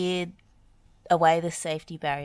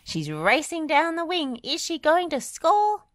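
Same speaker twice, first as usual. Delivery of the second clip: mock commentary; 11 semitones higher, 5 dB louder than usual. Playing football commentator.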